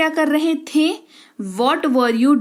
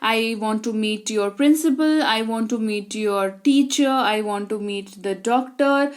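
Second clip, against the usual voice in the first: slow example sentences; much slower than usual. Shown as a demonstration. Teacher slowly lists who you might meet. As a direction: give each version slowly. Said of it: "कोई भी हो सकता है".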